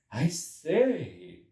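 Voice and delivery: loud, gleeful call; the editor calling out in high spirits; hilarious. A narrator's reading. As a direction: burst in with hilarity. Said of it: "said the editor hilariously".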